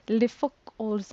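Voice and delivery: put-on amateur stab at a French accent; rough French accent with a bit of attitude; unpractised French accent. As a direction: try out a French accent, not very well. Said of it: "I'm not very good at a French accent".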